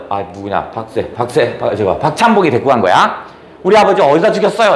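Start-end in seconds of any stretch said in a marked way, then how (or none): 3.6-4.8 우리 아버지 어디다 죽였어요 said quicker and pressing; faster demanding question. Retold or imitated. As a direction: press the question fast and hard. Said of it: "라고 얘기를 합니다". (다그치듯 빠르게 묻는 말투)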